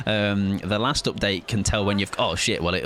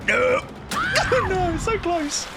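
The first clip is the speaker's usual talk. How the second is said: frantic groan at a near miss; panicking gamer; slower than usual. Real, not acted.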